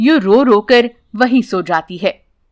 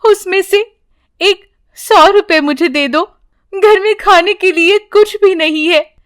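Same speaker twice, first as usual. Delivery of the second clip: high, tearful begging for the money; a lightly voiced weeping mother; pleading while crying; 5 semitones higher than usual. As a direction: beg through tears, higher than usual. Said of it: "वो रोते हुए उन्हें पैसे देकर कहती है".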